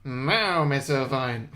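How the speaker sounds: a lightly nasal witch; a hint of a nasal old witch. To the trapped teacher, a lightly nasal witch voice. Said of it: "They're all just nasally".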